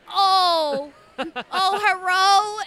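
imitating the cat's human-like meow; cat meowing hello. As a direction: call out like a cat meowing a word. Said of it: "he's like".

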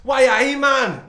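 shouted, hammed-up Geordie accent, high and very loud; Anton Deck. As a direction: bellow a badly faked Geordie accent. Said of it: "That's Anton Deck saying that anyway".

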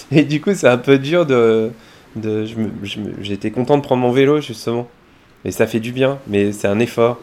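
tired, sluggish hungover voice. Real, not acted. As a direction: speak heavily, the morning after a drinking night. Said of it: "j'ai la gueule de bois". (avec la gueule de bois)

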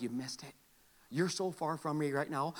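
quiet God's voice. Acted.

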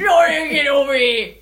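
loud, slow drawn-out yell; hillbilly shout. Pretend. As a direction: bellow it like a backwoods killer. Horror villain calling out.

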